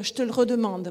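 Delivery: «je te le redemande» Paris style, e of «le» dropped, falling; clipped Parisian reading with dropped schwa; Parisian accent. Shown as a demonstration. Teacher contrasting Paris with Toulouse. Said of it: "à Paris, on va dire".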